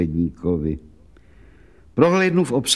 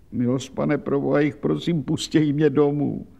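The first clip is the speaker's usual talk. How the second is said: tearful plea; 2 semitones higher than usual. Acted. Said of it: "zaplakala Anna Buklová".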